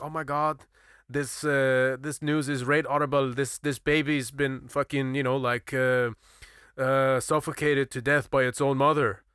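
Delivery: lightly imitated Yorkshire accent; a hint of a Yorkshire woman. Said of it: "in a really strong Yorkshire accent".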